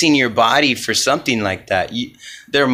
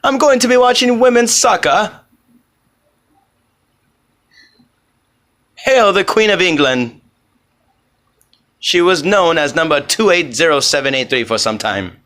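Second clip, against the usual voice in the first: mock British accent; 6 semitones higher than usual. Vlogger joking about announcing women's soccer in a British accent. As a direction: play a pompous Englishman badly in a British accent. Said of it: "a British accent for the rest".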